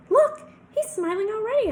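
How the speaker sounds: high, loud burst of delight; delighted announcement. A narrator's reading. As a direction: show him off as suddenly cheered. Feigned delight to steer teacher.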